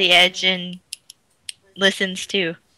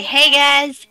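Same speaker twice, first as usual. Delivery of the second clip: spoken in Aquan; 6 semitones higher, 6 dB louder than usual. Acted. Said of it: "in Aquan".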